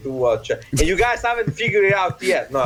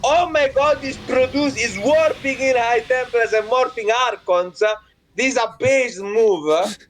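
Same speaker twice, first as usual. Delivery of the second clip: mock hype caster; 5 semitones higher than usual. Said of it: "with insane hype".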